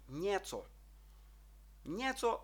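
"нєцо" as nye-tso, with a softened N; soft "є" sound. Shown as a demonstration. Teacher demonstrating the Czech hook over E, soft ye. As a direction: say "нєцо" with a ye glide, not a plain E. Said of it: "а звук «є»".

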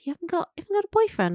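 high, quick incredulous question; retold boss. Woman quoting her nosy boss, high and incredulous. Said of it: "he said to me".

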